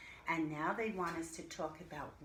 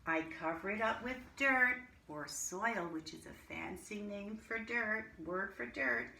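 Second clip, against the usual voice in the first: lively storybook reading to a class; reading to children. Acted. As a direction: read it like a teacher sharing a picture book. Reads a picture book aloud to class.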